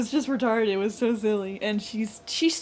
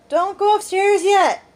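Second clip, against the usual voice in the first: high, loud, drawn-out plea; imitating an insistent, stretched-out holler; retold calling out; 9 semitones higher, 7 dB louder, slower than usual. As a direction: call it slowly up the stairs. Retold order to stop going upstairs.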